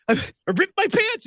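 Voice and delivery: embarrassed confession. Retold or imitated. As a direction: confess through leftover laughter. Admitting ripped pants while laughing.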